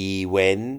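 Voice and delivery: event said "i-wen" with no final T; Thai-style event. Shown as a demonstration. Teacher imitating a Thai mispronunciation he has heard. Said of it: "ผมเคยได้ยิน event".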